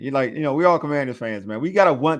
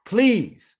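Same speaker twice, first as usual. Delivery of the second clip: high, falling cry of please; mock pleading; 6 semitones higher than usual. Fan ending his prayer for the defense, hammed-up begging. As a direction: beg heaven, half in jest.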